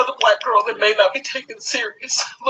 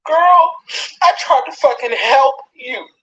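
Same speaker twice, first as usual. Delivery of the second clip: crying shout. Real, not acted. To Niecy who bullied her daughter, a crying shout. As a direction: cry out her name in real pain.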